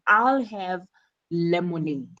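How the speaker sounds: "lemonade" set apart after a pause, falling; emphasize "lemonade" as the choice; pause, then a deliberate falling "lemonade"; stress on LEMONADE. Shown as a demonstration. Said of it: "She emphasizes that she wants lemonade".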